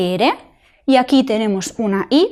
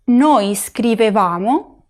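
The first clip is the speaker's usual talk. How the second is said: "scrivevamo" slow, VA drawn out; teacher's slow model, scriveVAmo; stress on va; much slower than usual. Shown as a demonstration. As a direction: lean long on the VA of "scrivevamo". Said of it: "la sílaba tónica es súper importante".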